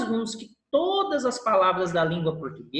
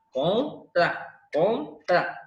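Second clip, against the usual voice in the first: Contra split into two beats, "con" and "tra"; syllable by syllable; much slower than usual. Shown as a demonstration. Teacher showing a two-syllable word to class, contra said syllable by syllable. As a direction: break contra cleanly between its two syllables.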